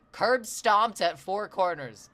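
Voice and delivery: loud, slow, mock Scottish accent announcing a song; awful Scottish accent. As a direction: another hammed-up Scottish title read. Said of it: "That was an awful Scottish accent for me".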